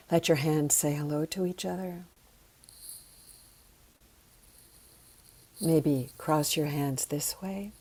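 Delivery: soft, unhurried guiding voice; guided calming exercise. Acted. Teacher settling students after breathing, calm guidance. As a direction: talk them gently into calm, with long pauses.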